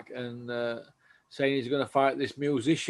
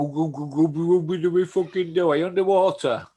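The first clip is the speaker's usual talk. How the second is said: loud raised voice; shouting; 5 semitones higher, 6 dB louder than usual. Real, not acted. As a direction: call out loudly over a bad line. Calling out over bad line.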